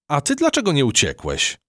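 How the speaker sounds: high, polite mouse; sweet curious mouse; little mouse voice. A narrator's reading. Matylda the mouse politely questions the cockroach captain, high voice.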